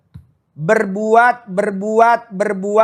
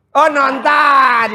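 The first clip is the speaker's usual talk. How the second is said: surprised; 6 semitones higher, 6 dB louder, much slower than usual. Real, not acted. Surprised someone is watching.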